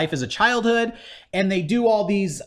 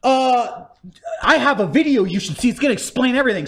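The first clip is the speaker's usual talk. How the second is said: urgent, higher mock game character; excitable game-guide parody; hammed-up Cortana-like guide; 4 semitones higher than usual. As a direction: play a frantic in-game helper voice. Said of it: "they just have this kind of Cortana character".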